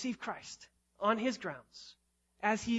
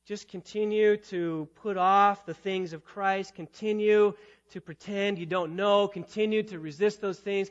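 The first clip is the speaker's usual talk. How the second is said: mock urging with sarcasm; ironic exhortation; 5 dB louder than usual.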